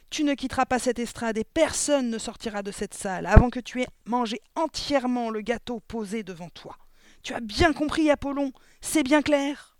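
loud, high, relentless tirade; furious yelling. A narrator's reading. Exploding headmistress lays down the law to the boy, furious shouting. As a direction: lay down the law at full voice. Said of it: "hurla-t-elle en se frappant la cuisse".

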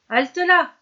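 high, loud bellowed halt; booming thunder voice. Acted. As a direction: bellow it like thunder to stop him. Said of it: "d'une voix de tonnerre".

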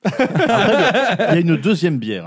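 high, slow laughing offer; laughing as you speak. Real, not acted. Offering beer while laughing.

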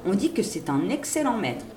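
usual speaking voice

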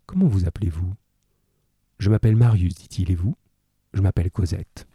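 measured, even reading of a classic novel; story narration. A narrator's reading. Teacher reading Les Misérables aloud to pupils, calm narration.

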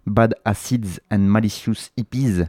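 album title read slowly with a self-mocking French-English accent; clumsy English accent, French speaker. Real, not acted. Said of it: "avec mon magnifique accent anglais".

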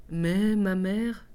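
timid. Acted. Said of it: "se hasarde timidement à dire la fillette".

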